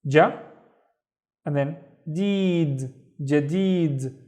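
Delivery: "ja" then "deed" slowly joined into "jadid"; syllable by syllable. Shown as a demonstration. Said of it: "the first syllable of it is".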